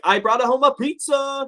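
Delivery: flat wife line, high and slow; bad acting. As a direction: read it like a wooden actress. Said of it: "I liked how he delivered the line".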